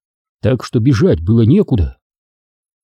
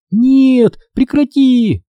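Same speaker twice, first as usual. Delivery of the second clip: screaming; 13 semitones higher, much slower than usual. A narrator's reading. Stephanie screams as the ghost lifts his head. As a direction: shriek for him to stop. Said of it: "завопила Стефани".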